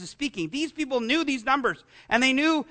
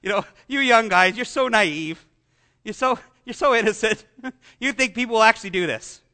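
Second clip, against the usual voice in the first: mock laugh then a condescending jab; a hint of mocking laughter, then scoffing. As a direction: laugh at him like a smug pundit. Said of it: "he was laughing at me".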